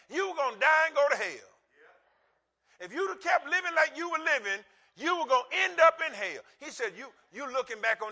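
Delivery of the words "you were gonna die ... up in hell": preaching with force. Acted.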